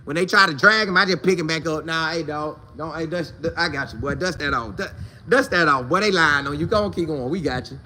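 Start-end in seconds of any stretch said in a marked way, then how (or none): 1.8-7.8 low, soft hype-up of a teammate; softer encouraging pep talk; a reassuring teammate keeping a friend going; hushed encouragement. Retold or imitated. Voicing himself hyping up teammate.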